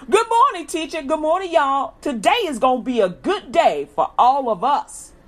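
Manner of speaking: high, loud cheery good morning to the teacher; sing-song hello to the teacher; bright greeting. Pretend. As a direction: greet everyone like it's the best morning.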